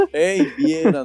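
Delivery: retold caller. Retold phone call from coworker.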